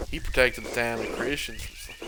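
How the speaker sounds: halting, lightly southern character voice; a hint of southern accent; still-southern accent. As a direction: try the role, landing on southern. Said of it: "it's still southern".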